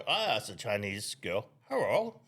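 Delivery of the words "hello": high-pitched put-on Asian accent; mock Asian accent. Man asking a girl for her number, mock Asian accent. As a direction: greet in a caricatured Asian accent. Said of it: "your Asian accent was so amazing".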